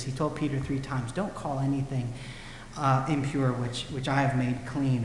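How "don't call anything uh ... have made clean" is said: gracious. Retold or imitated. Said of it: "But he's very gracious".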